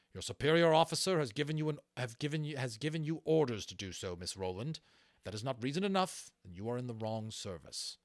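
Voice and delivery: loud, sharp rebuke; snapped. A narrator's reading. Lawrence snapping at Roland, loud and sharp. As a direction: snap at her. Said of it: "he snapped".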